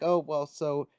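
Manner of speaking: lightly acted brushing past the objection; hurried-on, mildly awkward deflection; powering through. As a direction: push on as if nobody interrupted. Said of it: "like, power through and be like".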